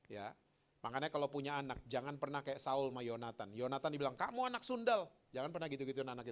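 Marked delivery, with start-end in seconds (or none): 4.2-5.1 higher-pitched scolding; lightly acted outburst at a son; a touch of fatherly rage; angry father's insult. Voices Saul insulting his son.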